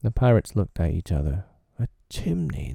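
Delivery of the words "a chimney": high surprised cry of discovery; exclaiming. A narrator's reading. Pirates spotting the chimney, exclaiming in surprise. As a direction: pirates blurt it out, amazed. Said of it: "they both exclaimed".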